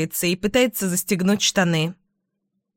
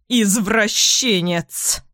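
shout; much slower than usual. Acted. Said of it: "кричит она".

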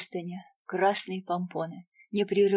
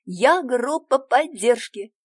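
восторженно; 4 semitones higher, 7 dB louder, slower than usual. A narrator's reading. Девочка хвастается.

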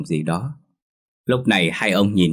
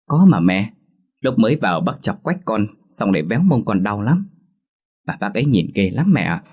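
put-on lisping toddler; 2 semitones higher, 3 dB louder than usual. Lisping toddler insists to mother about the old man. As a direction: insist like a toddler who can't talk clearly. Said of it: "với giọng ngọng líu ngọng lô".

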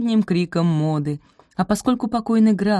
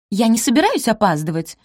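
warning; 5 semitones higher, 4 dB louder than usual. Acted. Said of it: "предупредила Розамунд".

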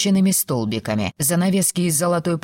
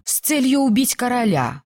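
higher-pitched excited disclosure; 7 semitones higher than usual. A narrator's reading. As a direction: reveal it with urgency. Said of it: "возбуждённо прошептала она". (возбуждённо)

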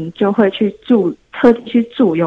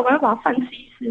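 talking through braces, a bit unclear; words slurred by braces; 2 semitones higher, 4 dB quieter, faster than usual. Real, not acted. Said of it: "我戴牙套，所以讲话不清楚".

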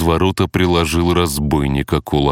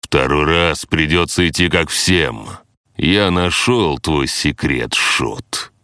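menacing boss voice. Acted. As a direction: threaten the intruders coldly. Boss threatens the party.

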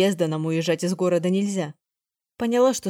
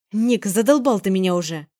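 louder fed-up yell; girl yells she is sick of it; shouting; 5 dB louder than usual. Acted. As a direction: snap back loudly at him. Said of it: "прокричала я".

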